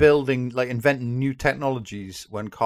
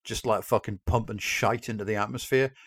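quiet musing quote; 5 dB quieter than usual. Retold or imitated. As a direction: muse it under your breath. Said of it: "and we thought".

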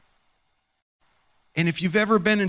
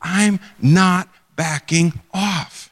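defiant; 4 dB louder, much slower than usual. Retold or imitated. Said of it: "I say".

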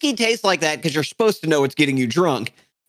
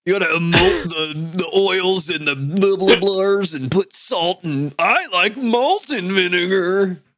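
mocking snob; slower than usual. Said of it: "You're like".

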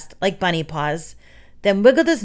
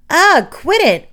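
loud, high-swooping complaint; exasperated cry to stop; grumbling protest; 10 semitones higher, 7 dB louder, slower than usual. A narrator's reading. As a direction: protest crossly while being manhandled. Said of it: "Erg rumbled".

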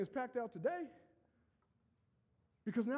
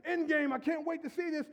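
excited; 4 semitones higher than usual. Retold or imitated. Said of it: "I was so ex".

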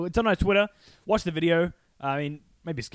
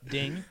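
ding sound effect; 6 dB quieter than usual. Pretend. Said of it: "a little sound bite of you going, ding".

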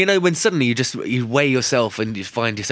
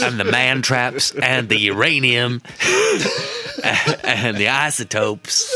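mock excuse through laughter; 2 semitones higher, slower than usual. Mocking the careless gun owner.

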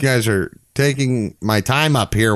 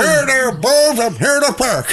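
weird Cartman voice. Retold or imitated. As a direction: squeak it like a whiny cartoon kid. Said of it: "like, the weird Cartman voice".

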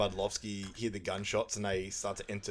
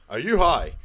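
dad's incredulous outburst; 6 semitones higher, 9 dB louder than usual. Retold or imitated. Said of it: "Dad goes".

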